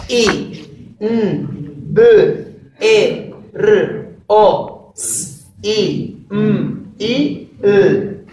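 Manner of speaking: I, N, B, E, R, O, S, I, M, I, L spelled sound by sound; phoneme by phoneme. Shown as a demonstration. Teacher leading class to say inverosímil phoneme by phoneme. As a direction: spell it out one sound at a time. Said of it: "Vamos a decirlo entre todos".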